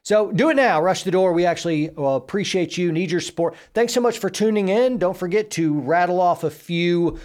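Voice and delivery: rally the viewers to join; upbeat outro. Real, not acted. Outro call to action.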